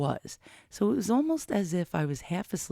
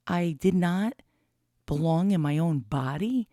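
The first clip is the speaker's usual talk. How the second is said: whistling nose. Real, not acted. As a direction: air whistling through the nose. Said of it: "I noticed my nose is whistling right now".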